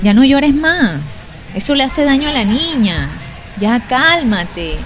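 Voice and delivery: mother pressing her daughter to stop crying; mother scolding. Retold or imitated. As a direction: drag it out firmly like a worried mother.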